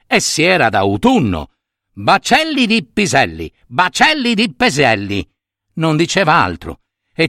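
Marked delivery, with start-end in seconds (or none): 1.9-5.3 lamentela acuta e cantilenante; reuccio capriccioso. Acted. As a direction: ripetilo come un bambino viziato. Il reuccio ripete la sua voglia. (capriccio insistente, voce alta)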